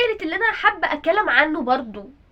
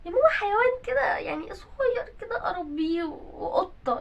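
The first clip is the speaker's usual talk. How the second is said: whiny begging; 5 semitones higher than usual. Acted. Daughter begging for pet.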